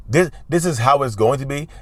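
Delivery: firm and decisive, at full speaking volume; strong, firm tone. Shown as a demonstration. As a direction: state it as settled fact, no hedging. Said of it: "this tone is strong".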